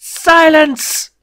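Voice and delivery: high, loud bellowed "Silence!"; furious shout. Acted. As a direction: cut him off with a roar. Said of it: "interrupted Kelvin".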